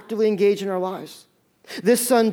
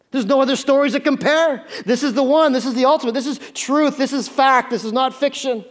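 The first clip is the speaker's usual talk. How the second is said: emphatic proclaiming; 6 semitones higher, 4 dB louder than usual. Real, not acted.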